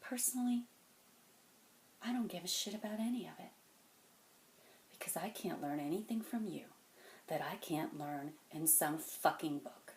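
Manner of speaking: soft and contained; quiet dismissal. Acted. Man telling a kid he learns nothing from him, quietly dismissive. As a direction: dismiss him without raising your voice.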